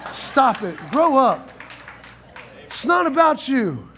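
preacher's scolding shout; stern shout. Real, not acted. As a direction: call it out sharply. Preacher rebuking sulkers.

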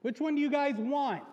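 loud, high, hammed-up game show host; game show host Pilate. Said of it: "Pilate's like".

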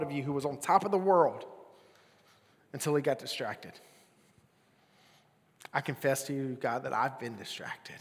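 earnest spoken prayer over the listeners; closing prayer. Acted. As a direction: pray over them steadily.

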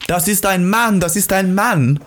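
retold drunk yell. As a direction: shout it out high like a startled drunk. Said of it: "und schreit". (nachgeahmter, hoher Schrei eines Betrunkenen)

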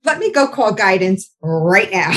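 high startled oh, then forced breezy calm; teacher hiding alarm in front of students, fake cool; mock calm. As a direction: pretend it's fine while panicking. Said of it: "And I'm like".

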